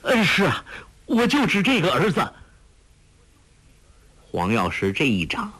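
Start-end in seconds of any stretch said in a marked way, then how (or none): 0.0-2.3 high, pleading, frightened voice; begging the master to spare his son; alarmed cry. A narrator's reading. Father begging master to spare his only son, high and alarmed. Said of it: "陆成风大惊叫道".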